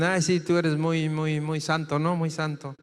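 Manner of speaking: lightly sarcastic jab at someone "so holy"; mocking taunt. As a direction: imitate a scoffer's mild teasing. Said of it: "Así como luego te dicen".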